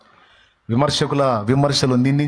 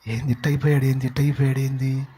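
gossiping woman; 3 dB quieter than usual. Retold or imitated. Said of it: "అని ఒక ఆమె అంటే".

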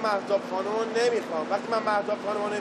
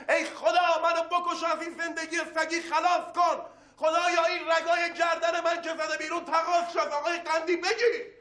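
raging lament; 5 semitones higher than usual. Acted. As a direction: curse them out in despair. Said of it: "این چرا قاطی کرد؟".

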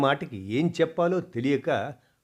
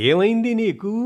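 higher, caring question; affectionate; 11 semitones higher, 8 dB louder than usual. Acted. Mother hugging her daughter, asking affectionately. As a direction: ask it while hugging her close. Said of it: "ఆప్యాయంగా హత్తుకొని అడుగుతూ".

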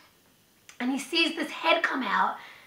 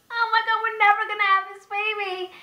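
exasperated; 6 semitones higher than usual. Retold or imitated. Despairing quote to herself.

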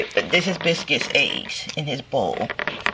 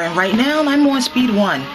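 winded on the treadmill; out of breath; 4 semitones higher than usual. Real, not acted. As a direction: talk while breathing hard. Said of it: "And I'm winded".

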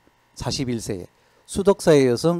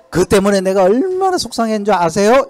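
higher, louder hurt reproach; aggrieved complaint; 5 semitones higher, 4 dB louder than usual. Retold or imitated. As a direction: imitate a partner nursing a grudge. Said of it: "이러면서 딱 이야기하는데". (섭섭한 파트너가 따지듯 서운한 말투)

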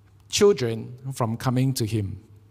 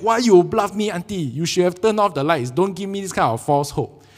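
mock upset; 3 semitones higher than usual. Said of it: "Angry, upset".

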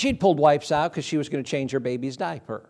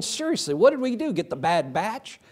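disbelief; 6 semitones higher than usual. Retold or imitated. Shock at ripped tuxedos.

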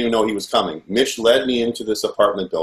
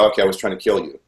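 resigned, slightly lowered giving-in; retold reluctant compliance; faster than usual. Frightened captive gives the forced confession, retold resigned compliance. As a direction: give in and repeat it dutifully.

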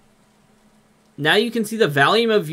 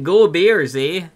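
put-on Minnesotan accent. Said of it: "He loved the accent".

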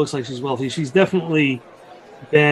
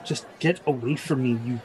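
weary; 11 dB quieter than usual. Acted. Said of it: "a weary stare and said".

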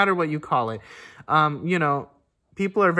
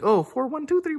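mock counting; 9 semitones higher than usual. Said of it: "People start to overthink".

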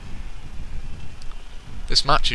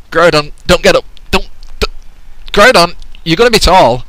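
louder, higher begging; mock pleading yell; 6 semitones higher, 7 dB louder than usual. Commentator begging Groudon to stay down, mock yelling.

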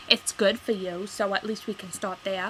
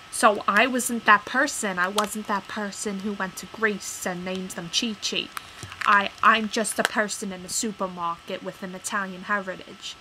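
much louder, offended; indignant outburst; 5 dB louder than usual. Retold or imitated. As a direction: defend your heritage hotly. Acted indignant reply.

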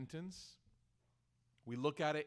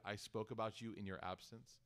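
a soft, lowered apology as if ashamed to say it; softer, humbled plea for forgiveness; quiet ashamed confession; 5 semitones lower, 7 dB quieter than usual. Retold or imitated. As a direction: murmur the confession, humbled and sorry. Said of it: "looking at the eyes of a person and saying".

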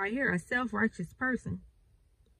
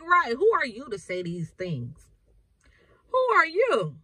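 mock indignant challenge; 3 semitones higher, 3 dB louder than usual. Imitating doubters scoffing at the one who tells them. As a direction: sneer it back at the preacher. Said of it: "And they like".

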